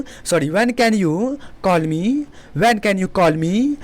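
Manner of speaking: very slow model question; slow classroom demo; slow teaching delivery. Shown as a demonstration. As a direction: say it slowly for learners. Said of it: "teacher models question".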